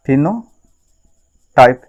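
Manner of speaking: फेनोटाइप stretched out very slowly, syllable by syllable; slow drawn-out term. Shown as a demonstration. Teacher drilling the term for students, slow and drawn out.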